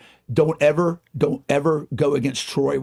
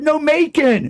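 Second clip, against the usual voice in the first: very high, loud punchline mimicry; waitress with speech impediment; 14 semitones higher, 6 dB louder, slower than usual. Waitress correcting his guess of Tbilisi, high mimicked impediment. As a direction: imitate her correcting you, pitched way up. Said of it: "She had a speech impediment".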